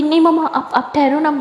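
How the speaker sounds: high, flustered protest. Acted. Aliya caught kissing, flustered to her mother. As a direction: blurt it out caught off guard.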